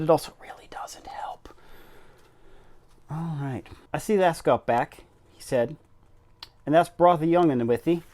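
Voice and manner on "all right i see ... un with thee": put-on a hesitant try at a Yorkshire accent, louder; station master greeting in an amateur Yorkshire accent; attempted Yorkshire accent. Station master welcomes Missus Medlock, tentative Yorkshire accent. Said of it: "spell everything in a Yorkshire accent".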